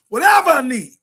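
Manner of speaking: preacher's rising cry; emphatic preaching shout. Real, not acted. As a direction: raise the voice as if testifying.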